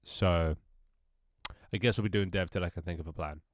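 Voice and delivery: blocked nose, bunged-up voice; talking through a stuffy nose. Real, not acted. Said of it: "I do sound really stuffy".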